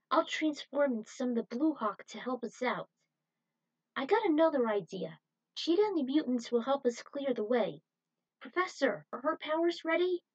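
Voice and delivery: brief the team like a leader; lightly voiced commander. Tyler briefs the professor and Cheetah, lightly voiced.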